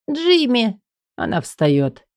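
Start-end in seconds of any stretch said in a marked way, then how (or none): 0.1-0.8 Элли's voice. Acted. Элли higher.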